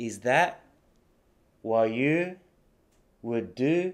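"Is that / what you / would do" with pauses, no T in "that" or "what"; dropped Ts, in chunks. Shown as a demonstration. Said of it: "ThatのTが落ちてて".

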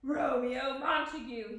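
loud, slow angry accusation; snarled. A narrator's reading. Furious Paris confronting Romeo in the vault, snarled. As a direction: snarl the name slowly and forcefully. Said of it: "he snarled".

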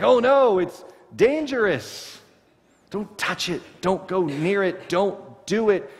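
high, slow, hammed-up panic; mock alarm. Preacher mocking our fear of danger, hammed-up alarm. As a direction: act out a fussy, frightened warning.

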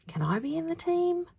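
put-on high, small boy's timid question. A narrator's reading. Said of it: "asked Bruno timidly".

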